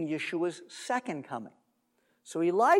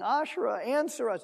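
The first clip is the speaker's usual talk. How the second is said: lightly acted plea, pitched higher; mock imploring; 5 semitones higher than usual. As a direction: call on a goddess in mild imitation. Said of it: "they're calling on Baal".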